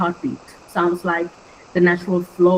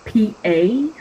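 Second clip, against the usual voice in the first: spelled-out syllable; 3 semitones higher than usual. Shown as a demonstration. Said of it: "like in parade".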